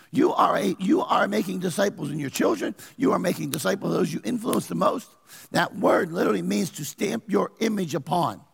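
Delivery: full-force preaching at the church; preaching shout. Acted. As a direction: drive it home to the crowd.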